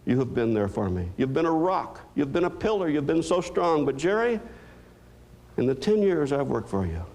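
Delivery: the doctor tells Jerry kindly she's happy he needs her; doctor's voice. Retold or imitated. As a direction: gently tell him what he's never done. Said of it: "She said".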